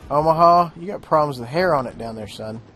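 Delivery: mock taunting. Mock taunting enemy player.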